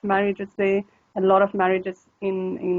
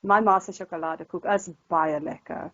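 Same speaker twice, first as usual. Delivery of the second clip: Coloured Afrikaans accent with r-less "lekker". Shown as a demonstration. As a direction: show how Coloured Afrikaans speakers say it. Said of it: "more of a, a color type of accent".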